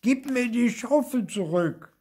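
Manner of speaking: put-on child's angry shout; angry yell. A narrator's reading. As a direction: yell for it back in fury. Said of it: "schreit Theo wütend".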